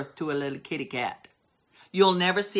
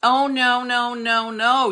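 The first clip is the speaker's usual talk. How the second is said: loud scornful rebuttal, higher; indignant preacher's no; scoffing retort; 5 semitones higher, 5 dB louder than usual. Real, not acted. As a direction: shoot the idea down with scorn.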